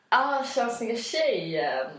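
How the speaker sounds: put-on slow, drawn-out hey there girl; cocky guy catcall. Playing a cocky guy who calls out to a passing girl, slow. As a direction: play the smug guy calling out. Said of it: "du får prova".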